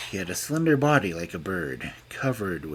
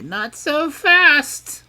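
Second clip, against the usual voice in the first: much higher, very slow fairy warning; 8 dB louder, much slower than usual. A narrator's reading. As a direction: drag it out menacingly. Fairy stops the king.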